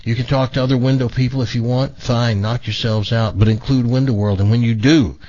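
deliberate radio pitch, slowing on key phrases; live ad read. Acted. Radio host pitching the window sponsor, measured ad-read delivery. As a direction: sell it to listeners, stretching the selling points.

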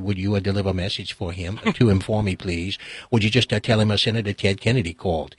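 put-on low, soft senator in a Boston accent; courteous Kennedy impersonation, pitched well down; Ted Kennedy. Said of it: "pretending to be Ted".

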